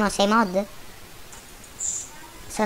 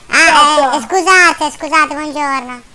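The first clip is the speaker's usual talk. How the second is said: electronically altered voice; deep pitch shifted; 5 semitones higher, 4 dB louder, slower than usual. Real, not acted. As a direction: voice changer effect. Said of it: "Ma è la voce modificata".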